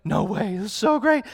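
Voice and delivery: loud, high joyful cry; overjoyed. Retold or imitated. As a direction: burst out with delight. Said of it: "I was like".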